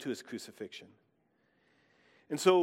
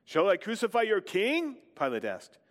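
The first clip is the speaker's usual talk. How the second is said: measured, earnest reading of the Passion, voicing the crowd; scripture reading. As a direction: read the Gospel aloud to the congregation. Reads the Passion from John.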